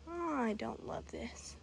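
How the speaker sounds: nervous whisper. Real, not acted. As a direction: breathe it out, uneasy. Nervous hiker near strange dog.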